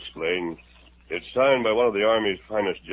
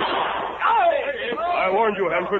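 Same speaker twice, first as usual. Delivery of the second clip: much higher, louder, very slow warning; stern warning; 13 semitones higher, 4 dB louder, much slower than usual. Acted. The Lone Ranger after shooting the gun from the spy's hand, stern. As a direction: drag out each word as the shot lands.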